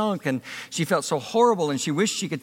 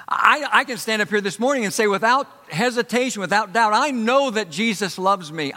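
raised, emphatic sermon delivery; forceful preaching; 4 semitones higher than usual. Real, not acted. Preacher to congregation on Jesus's love, forceful preaching. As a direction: preach it with conviction, pitch lifted.

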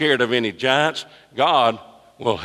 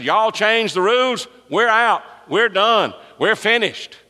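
defiant ultimatum; 10 semitones higher, 3 dB louder than usual. Retold or imitated. Retold defiant ultimatum to Scouts.

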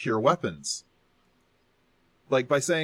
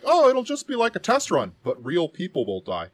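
mock evil executive; 6 semitones higher, 5 dB louder than usual. Mocking an evil sales director.

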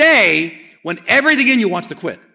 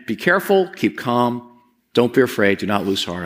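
calm repeated mantra; 4 semitones lower than usual. Shown as a demonstration. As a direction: say it to steady yourself. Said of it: "I can just do this multiple times".

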